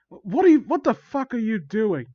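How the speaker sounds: freaked-out high, loud voice; Jacob. Acted. Victim confronts villain, freaked out. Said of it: "Jacob voice".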